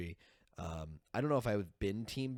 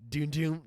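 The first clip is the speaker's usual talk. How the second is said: imitated dramatic sting; 6 semitones higher, 6 dB louder than usual. Imitates sting before hard cut.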